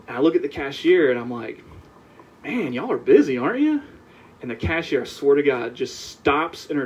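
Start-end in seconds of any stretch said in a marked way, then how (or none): 2.4-3.8 chatty small talk. Retold or imitated. Retelling small talk with cashier.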